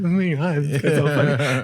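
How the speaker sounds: mock her gushing, drawn out; imitating gushing girlfriend. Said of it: "beautiful girl who's going".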